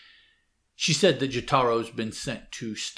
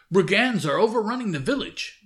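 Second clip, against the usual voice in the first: higher and louder, urgent warning; alarmed shout; 10 semitones higher, 6 dB louder than usual. Retold or imitated. Servant warning Usagi of the brigands, loud. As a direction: raise the alarm.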